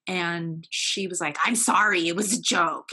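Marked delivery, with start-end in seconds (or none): 1.4-2.9 a loud, brushed-off "I'm sorry" that trails into an excuse; imitating mom's grudging apology; half-hearted mock apology, tossed off; dismissive apology. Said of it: "And she said it like that".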